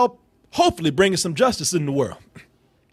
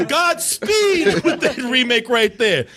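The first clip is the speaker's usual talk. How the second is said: sarcastic godspeed; 8 semitones higher, much slower than usual. Retold or imitated. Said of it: "And I'm like".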